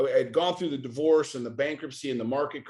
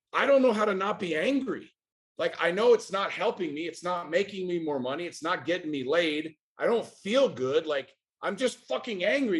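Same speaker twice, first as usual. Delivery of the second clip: higher-pitched exasperated confession; exasperated, pitched up from the first words; frustrated venting; 4 semitones higher than usual. Retold or imitated. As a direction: retell venting helplessly to a coach. Retold plea to his coach.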